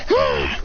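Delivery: low, rough exhaled cry; effortful grunt. Acted. Demon slamming his teacher down, grunting. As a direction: force out a low breath.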